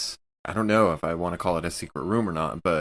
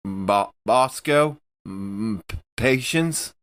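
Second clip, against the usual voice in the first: slow, nervous call into the dark, pitched up; hesitant calling out; 3 semitones higher, 3 dB louder, slower than usual. Acted. Player calling for missing crew, slow and nervous. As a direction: call out haltingly, afraid of the answer.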